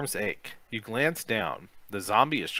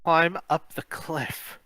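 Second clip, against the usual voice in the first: shout; 7 semitones higher, slower than usual. A narrator's reading. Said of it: "shout at Kim".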